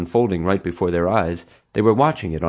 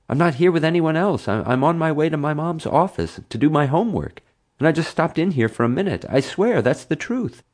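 put-on a higher boy's voice protesting his innocence; pleading boy; 9 semitones higher than usual. A narrator's reading. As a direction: sell the lie, earnest and quick.

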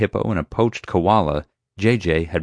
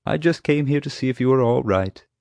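higher-pitched talk to an animal; tender reassurance; 7 semitones higher than usual. A narrator's reading. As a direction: gently check on a beloved animal. Talks tenderly to the rhino.

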